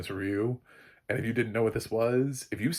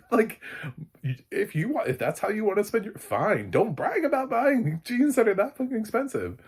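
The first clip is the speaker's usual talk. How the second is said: high, loud exasperated scolding; exasperated rant; 6 dB louder than usual. Real, not acted. Ranting at Blake about bragging over jeans. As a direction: lay into her, half laughing.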